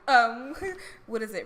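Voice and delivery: normal talking voice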